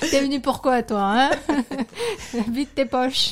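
suspicious mock interrogation, voice put on; lightly voiced bigot with laughter; mock cop. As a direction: bark it like a mocking cop. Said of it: "mocking racist French".

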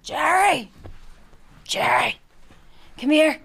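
put-on high, loud old woman calling. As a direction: call him over like a shrill granny. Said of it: "I sound like an old woman there".

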